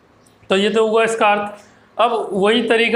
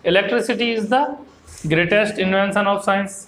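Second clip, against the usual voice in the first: very slow, even English reading for students; a teacher reading a textbook line slowly and clearly; slow flowing read-aloud; much slower than usual. Shown as a demonstration. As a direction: read it out slowly so the class can follow. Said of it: "flow में कैसे पढ़ना है".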